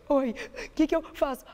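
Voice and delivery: high gasp then frantic plea; hammed-up frightened mother; mock panic. Mother mimicking how every new mom panics on the phone. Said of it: "Vocês falam assim".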